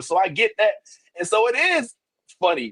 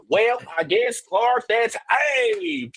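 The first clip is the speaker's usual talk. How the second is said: put-on heavier Kansas accent; much slower than usual. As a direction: lay the Kansas on thick. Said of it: "a little more Kansas".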